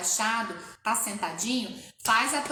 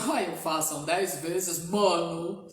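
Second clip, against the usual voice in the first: laughing; 7 semitones lower, slower than usual. Real, not acted. Laughing at own slip.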